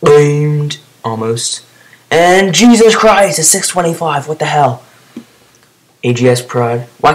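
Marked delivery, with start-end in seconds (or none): 2.1-4.8 astonished outburst. Real, not acted. Gamer reacting to a massive hit in his clip, astonished. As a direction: exclaim in amazement, high and stretched.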